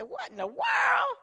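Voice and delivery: shocked shout. Retold or imitated. Denise finding the supervisor in tears, shouting in shock. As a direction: cry out in disbelief.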